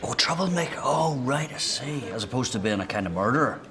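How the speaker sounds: high-pitched, prickly retort; aggressive. Acted. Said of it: "So aggressive".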